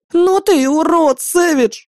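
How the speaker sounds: high, slow, spiteful huff; angry puffing. Acted. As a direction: spit it out breathless with anger. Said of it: "злобно пропыхтела". (злобно пыхтя, высоко и медленно)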